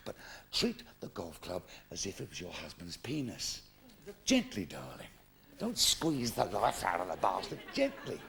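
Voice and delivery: low, soft intimate murmur; soft, gentle coaxing. Acted. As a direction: coax her to go gently. Pro says treat it gently.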